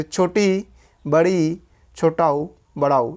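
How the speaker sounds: इ, ई, उ, ऊ with mouth almost shut; name each close vowel in turn; nearly closed vowels. Shown as a demonstration. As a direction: demonstrate close इ, ई, उ, ऊ. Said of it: "मुख लगभग बंद हो जाए".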